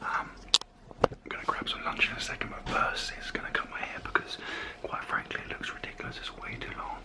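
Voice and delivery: very quiet, soft, hushed whisper all the way through. Back home from training while the baby sleeps nearby, whispering. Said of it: "I'm whispering like a weirdo".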